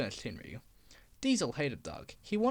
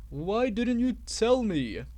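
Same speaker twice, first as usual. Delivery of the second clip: louder, slow indignant demand; indignant outburst; 4 semitones higher, 5 dB louder, slower than usual. Acted. Diesel outraged at Duck, slow indignant demand.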